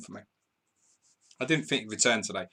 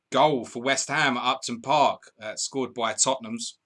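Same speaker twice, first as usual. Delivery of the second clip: goal announcement; 2 semitones higher, 5 dB louder, slower than usual. Real, not acted.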